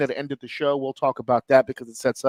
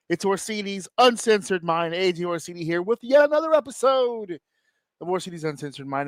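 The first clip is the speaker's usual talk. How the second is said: announcer intro; 2 semitones higher than usual. Acted. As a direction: show host announcing the title. Host announcing show name.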